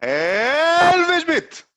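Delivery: very high, loud, long-stretched shout; announcer-style name call. Acted. Guest echoes the host's big intro, stretched announcer call. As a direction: draw the name right out at full volume.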